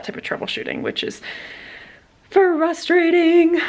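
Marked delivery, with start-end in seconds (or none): 2.3-3.6 high, drawn-out complaint; slow, pitched-up frustrated whine; exaggerated frustration. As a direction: stretch the word out in mock exasperation. Complaining about troubleshooting.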